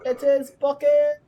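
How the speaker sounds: high, loud and slow, drawn-out glee; hammed-up delight. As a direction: stretch it out like a gleeful cartoon. Hammy delight at game character.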